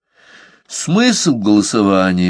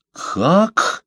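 high startled "Как?"; a sharp, high cry of disbelief; exclaiming; 10 semitones higher than usual. A narrator's reading. Masson cries out in shock at the vote, high startled cry. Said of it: "вскричал Мессон".

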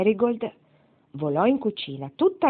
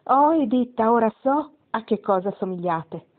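higher and louder on "Oh, Editta", delighted; girl calling out with sudden discovery; bright excited cry, easing at the end; loud exclamation; 5 semitones higher, 4 dB louder than usual. A narrator's reading. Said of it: "Marigold esclamò ad alta voce".

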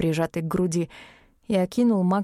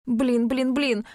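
quick mutter of блин блин блин; rapid muttering; 5 semitones higher, slower than usual. A narrator's reading. Wolf cub mutters in a rush beside Billie. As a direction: patter it out fast under the breath. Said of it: "скороговоркой забормотал".

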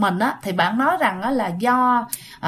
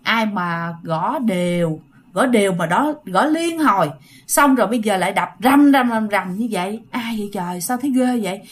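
sợ hãi nghĩ thầm; 3 semitones lower than usual. Retold or imitated. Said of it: "suy nghĩ trong bụng rằng á là".

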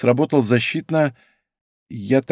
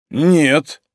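snorting no; 5 semitones higher, 4 dB louder than usual. Acted. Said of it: "фыркнула она".

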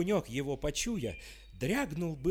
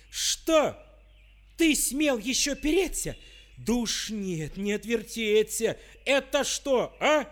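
high, loud furious tsar; the tsar explodes at Ivan; angry outburst; 6 semitones higher, 7 dB louder than usual. A narrator's reading. Царь гневно находит перо. (гневный вскрик царя, высоко и громко)

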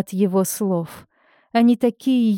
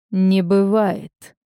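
plain reading voice

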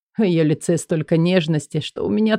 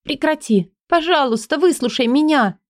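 pleading; 9 semitones higher than usual. Acted. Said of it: "Просит".

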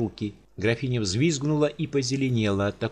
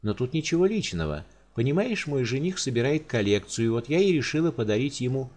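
lighter, higher and breezy; a careless noblewoman chattering; carefree countess; 3 semitones higher than usual. Acted. Countess casually explains her gift to the giant.

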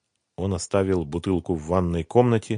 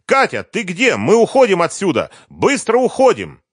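high, loud panicked yell to her daughter; sudden shout; 13 semitones higher, 7 dB louder than usual. A narrator's reading. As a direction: shout across the flat, much higher and louder. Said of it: "и вдруг закричала".

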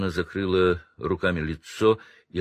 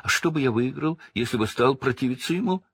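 snivelling Pettigrew; 6 semitones higher, faster than usual. Acted. Pettigrew pleads.

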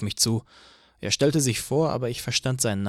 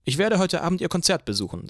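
higher, stern officer voice; police chief voice; 6 semitones higher than usual. A narrator's reading. Police chief lectures Eugene on the traffic danger, higher stern voice.

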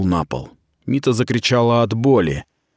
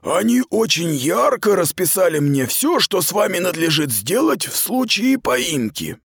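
stern commander; 8 semitones higher than usual. Acted. Aradai lectures the captured girl, cold and official. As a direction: speak as a cold superior officer.

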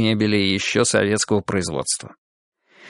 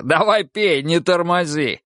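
higher-pitched, hearty push; boisterous urging; 6 semitones higher than usual. A narrator's reading. Goga hurries friend's glass along, boisterous. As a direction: egg a pal on to drink.

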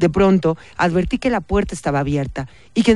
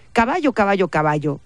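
croaking bird; 3 semitones higher than usual. Acted. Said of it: "graznó Matilde".

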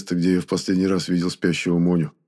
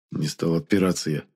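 ordinary delivery

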